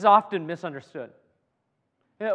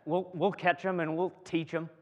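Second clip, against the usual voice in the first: preacher tries the line again in a Southern accent; 4 dB quieter than usual. Shown as a demonstration. Preacher redoes his joke line in a mock Southern accent. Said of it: "I think that needs a southern accent".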